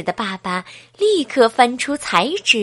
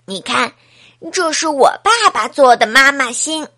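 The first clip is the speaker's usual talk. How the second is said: a touch of smug pride, louder at the end; proud, showing off; 3 semitones higher, 5 dB louder than usual. Acted. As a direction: show it off to your friend. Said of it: "很得意地". (阿志得意地向小苹果炫耀)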